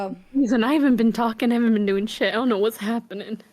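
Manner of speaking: strained, fading voice; losing voice. Real, not acted. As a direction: voice nearly gone. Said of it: "sympathy voice loss".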